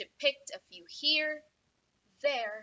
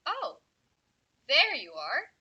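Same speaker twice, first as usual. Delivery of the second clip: calling out; 9 semitones higher, 8 dB louder than usual. Acted. Storyteller calling children over.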